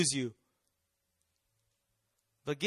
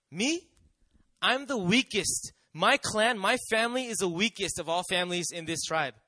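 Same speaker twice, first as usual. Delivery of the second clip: Gideon protesting; 4 dB louder than usual. Acted. Preacher voicing Gideon's protest.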